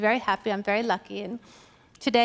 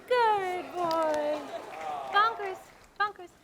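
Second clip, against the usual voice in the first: coaxing the dog; 6 semitones higher than usual. Acted. Coaxing her dog to speak.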